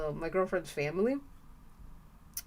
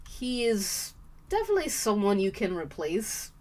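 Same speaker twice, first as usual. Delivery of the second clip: normal talking voice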